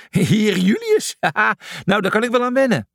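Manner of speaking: high, laughing and pleased; delighted laugh. Acted. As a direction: savour the new title with a laugh. Julius delighted by the title.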